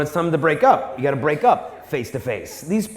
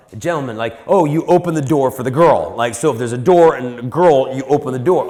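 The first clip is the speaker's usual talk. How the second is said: put-on lower, unsure voice of a clueless teen; 4 semitones lower, 3 dB louder than usual. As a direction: play a boy fumbling for an answer. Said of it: "He'll be like".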